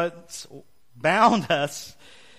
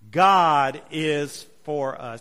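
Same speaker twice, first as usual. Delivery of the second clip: slow, stretched read-aloud, moderately raised; not loud enough; 5 dB louder, much slower than usual. Shown as a demonstration. Preacher leading the room's first read-aloud, not loud enough. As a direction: read it out slowly, holding back some volume. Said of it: "That wasn't loud".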